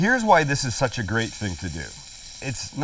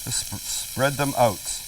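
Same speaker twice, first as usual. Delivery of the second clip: slow, put-on Canadian accent; playful best-effort Canadian accent; slower than usual. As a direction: draw out "out" in a mock Canadian accent. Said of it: "I say in my best Canadian accent".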